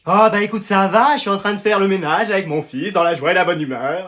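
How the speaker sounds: sugary, easygoing phone chat; honeyed phone voice. Acted. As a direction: play the contented mother on the phone. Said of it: "t'as une voix toute mielleuse". (voix toute mielleuse)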